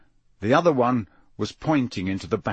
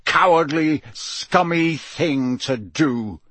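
higher, emphatic contempt, slowing at the end; angry scolding; 4 semitones higher, slower than usual. Acted. Moody scolding the squealing ferret, angry. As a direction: punch each insult separately.

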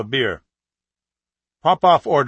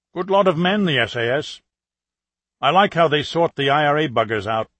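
put-on Russian putting on a working-class British accent; higher, hearty British working-class accent, blending in at the pub; British blue-collar accent; 3 semitones higher than usual. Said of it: "in his best British blue-collar accent".

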